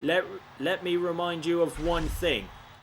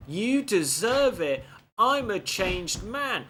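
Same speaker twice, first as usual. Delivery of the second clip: higher, slow, swooping mimicry; mock Flair; 6 semitones higher, slower than usual. Player throwing the wrestler's broken promise back, mocking. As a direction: parrot his promise with drawn-out mockery. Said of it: "Flair's like".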